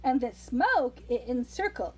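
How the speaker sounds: put-on rhythmic read-aloud to a child; lilting Christmas poem reading; storybook poem reading. A narrator's reading. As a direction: read the verse like a bedtime story.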